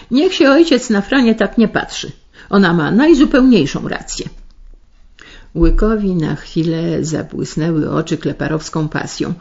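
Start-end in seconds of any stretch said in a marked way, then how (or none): 0.1-4.3 high, pert and cheeky daughter talking back; cheeky backchat, a bit louder; impertinent. A narrator's reading. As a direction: sass the father, pitched up. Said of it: "rzekła impertynencko".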